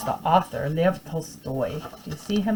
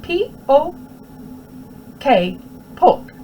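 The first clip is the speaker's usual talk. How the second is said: high, slow spelling out; child spelling; 8 semitones higher, slower than usual. Acted. Small boy spelling his name for the teacher, slow and high.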